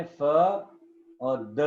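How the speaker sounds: फ and द each said on its own; two syllables shown. Shown as a demonstration. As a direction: split the word into फ, pause, द. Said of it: "इसके two syllable बने".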